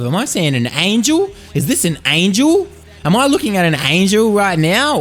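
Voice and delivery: awed Predator voice. Retold or imitated. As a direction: marvel like a hunter seeing an angel. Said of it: "this Predator's singing to himself".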